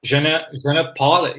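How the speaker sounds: halting French, restarting; broken French. Retold or imitated. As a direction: stumble through the French words. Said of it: "Sorry for my bad French".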